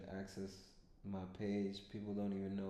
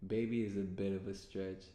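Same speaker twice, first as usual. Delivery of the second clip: laughing through quote; 7 dB louder than usual. Real, not acted. Quoting her text, laughing.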